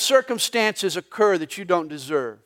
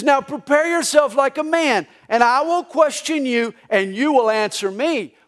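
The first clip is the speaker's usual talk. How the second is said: booming voice of God; 4 semitones higher, 4 dB louder than usual. Acted. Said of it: "He says".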